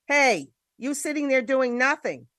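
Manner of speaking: mild mock bellow. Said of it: "he bellows".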